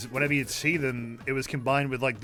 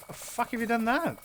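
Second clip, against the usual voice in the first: 1 imitating surprise; 9 semitones higher, 3 dB quieter than usual. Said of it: "genuinely, like, surprised".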